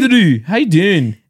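slow, badly faked Irish; amateur Irish accent, drawn out. Shown as a demonstration. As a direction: drag out a jokey Irish greeting. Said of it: "I hope he's Irish then".

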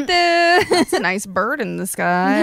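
slow, dopey musing in imitation; mock daydreamer, drawn out; oblivious boyfriend. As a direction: play a man idly lost in thought. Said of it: "he's actually just sitting there like".

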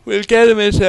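words stretched by a real yawn; yawning mid-sentence. Real, not acted. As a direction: talk through a yawn. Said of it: "the yawning has started".

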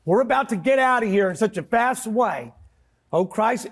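mock a Southern escapist believer in a clumsy Southern accent; bad Southern accent. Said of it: "it was a terrible Southern accent that you did there".

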